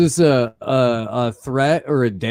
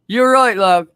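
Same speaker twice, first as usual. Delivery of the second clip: high mock cop reply; 8 semitones higher, 5 dB louder than usual. Voicing the cop.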